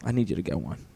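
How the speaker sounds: soft whispered nudge; hushed reply. Pretend. Answering the whisper in a soft whisper. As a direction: whisper it back.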